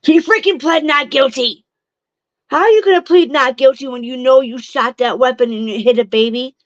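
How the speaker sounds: heated, incredulous venting; real outrage. Real, not acted. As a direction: let exasperation burst out, then ease slightly. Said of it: "I'm so mad right now".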